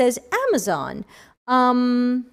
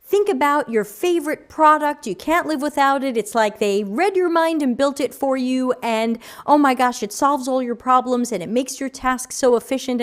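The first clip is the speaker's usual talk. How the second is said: conference talk delivery. Retold or imitated. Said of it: "I say in my conference talks".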